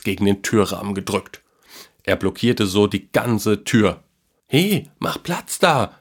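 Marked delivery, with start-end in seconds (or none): 4.5-6.0 high, slow, bossy call; a boy bossing a monkey out of the doorway; demanding boy. A narrator's reading. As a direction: tell the monkey off, drawn out and higher. Boy ordering monkey aside.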